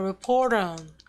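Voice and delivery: "report on" run together as one word; linked, reduced pronunciation. Shown as a demonstration. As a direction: link the end of "report" straight into a weak "on". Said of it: "여기서도 축약이 일어나요". ("report on"을 한 단어처럼 이어서 축약)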